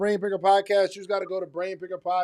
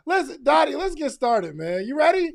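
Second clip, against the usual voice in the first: hype-man push; 8 semitones higher, 4 dB louder than usual. Real, not acted. Hyping co-host to start.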